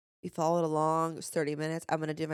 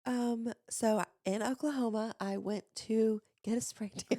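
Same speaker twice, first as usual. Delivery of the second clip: slow, raised, careful pitch; higher-octave practice voice; 5 semitones higher than usual. Shown as a demonstration. Host practising away her vocal fry, slow higher voice. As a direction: speak slowly up in your head voice. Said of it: "to talk in a higher octave".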